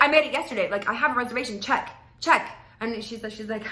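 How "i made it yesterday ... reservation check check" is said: mock-pushy customer; aggressive insistence. Date demanding the hostess check again, loud. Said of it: "like, aggressive in a way".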